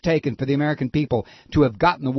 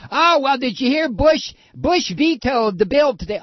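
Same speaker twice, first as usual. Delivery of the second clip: mock gossipy host; 10 semitones higher than usual. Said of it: "talking about".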